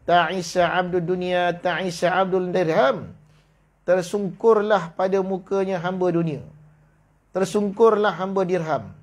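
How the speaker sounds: slow, measured recitation of a hadith. Acted. Teacher reciting the Prophet's saying to students, slow solemn recitation. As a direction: lay each phrase down slowly and solemnly.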